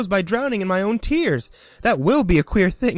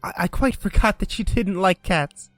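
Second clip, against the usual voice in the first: flustered apology; 6 semitones higher than usual. A narrator's reading. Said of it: "cried Alice hastily".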